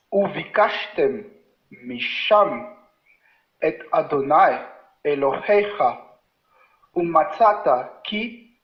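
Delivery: slow, careful Hebrew reading; syllable by syllable for the class; reading slowly on request. Shown as a demonstration. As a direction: read each word slowly for the learners. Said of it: "relis doucement pour nos amis".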